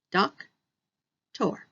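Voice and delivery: doc-tor said syllable by syllable, slow and separated; teacher breaks doc-tor into its two parts; split into syllables. Shown as a demonstration. Teacher showing students the two syllables, slowly split. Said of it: "has two syllables".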